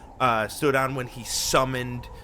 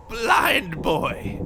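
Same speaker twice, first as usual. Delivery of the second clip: high dramatic reveal; 8 semitones higher than usual. Acted. Game master announces the disguise idea.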